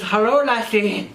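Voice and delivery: slow, drawn-out Irish greeting; mock Irish accent. Client greeting her, mock Irish accent. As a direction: put on a hammed-up Irish lilt. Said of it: "he sounded way sexier than that".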